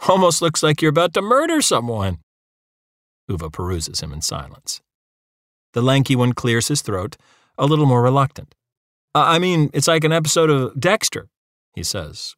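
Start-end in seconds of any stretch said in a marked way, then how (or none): 0.1-2.2 grinning. A narrator's reading. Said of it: "He lights up and looks at Uva with a grin". 9.1-11.3 less confident grin. A narrator's reading. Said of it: "much less confident grin".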